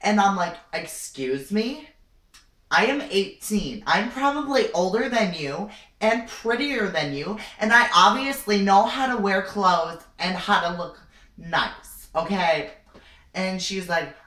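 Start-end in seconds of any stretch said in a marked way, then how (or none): 0.7-12.7 high, loud, sassy comeback; indignant retort. Retold or imitated. Eighteen-year-old telling off the store clerk, indignant. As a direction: act out an affronted teen telling someone off.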